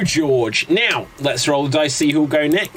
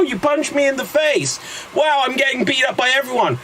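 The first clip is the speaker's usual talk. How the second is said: put-on much higher, fast panicky kid; frantic teen; 8 semitones higher than usual. Scott Pilgrim getting beaten up by exes, much higher panicky squeak. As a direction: squeak through the beating.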